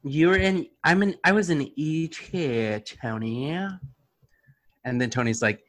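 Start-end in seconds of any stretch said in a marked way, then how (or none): 0.0-3.5 attempted Australian accent, drawn out. Host voices an actor realizing her E.T. link, Australian accent. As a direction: put on a shaky-grasp Australian accent. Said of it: "The Australian accent".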